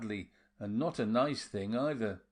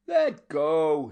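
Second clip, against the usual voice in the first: 1 sharp command; 5 semitones higher, 9 dB louder than usual. A narrator's reading. Constantino seizing her hands.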